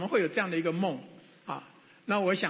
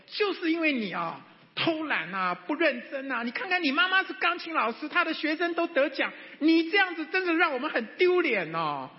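vicious scolding; 8 semitones higher than usual. Retold or imitated. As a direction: scold her hard for the failed recital. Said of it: "最恶毒的那种眼光哈，啊，那个话语啊".

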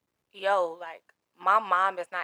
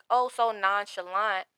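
higher-pitched oh, drawn out after; indignant mimicry; 4 semitones higher than usual. Patient confronting her doctor about bad news, indignant mimicry. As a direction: mimic someone breezy, with reproach. Complaining of doctor's offhand manner.

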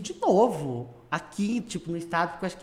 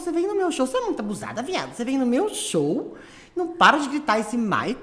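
mock indignant diva; 4 semitones higher than usual. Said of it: "Ela falou".

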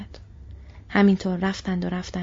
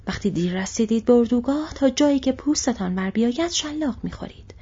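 mocking orc; 4 semitones higher than usual. Orc commander taunting the marching slaves, sneering. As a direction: jeer at them while cracking the whip.

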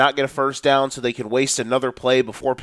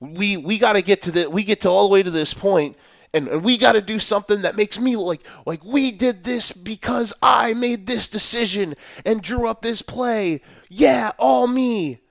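rising higher into a cocky, shouty brag; mocking egotistical coach; 4 semitones higher than usual. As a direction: ham up a coach taking all the credit. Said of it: "all of a sudden they're like".

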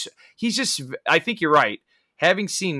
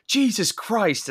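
drawn-out high exasperated Jesus Christ; exasperated curse; 9 semitones higher, slower than usual. Retold or imitated. Retelling the bowling alley scene to a co-host, drawn-out exasperated curse. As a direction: stretch it out, fed up with the noise.

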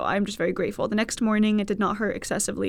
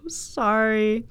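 sincere apology; slower than usual. Real, not acted. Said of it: "I mean it when I say".

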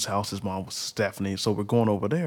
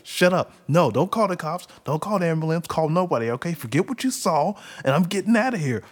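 higher, louder urgent refusal; hushed angry brush-off; 6 semitones higher, 4 dB louder than usual. Retold or imitated. Uncle on probation telling the lady not to call cops, urgent. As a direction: wave her off, desperate not to be reported. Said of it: "He's like".

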